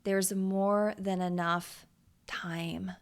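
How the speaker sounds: slow, with "time" whispered; slow and soothing. Shown as a demonstration. Host sharing her calming mantra, slow and hushed. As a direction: savor each word, then breathe out "time". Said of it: "one of my much loved thoughts".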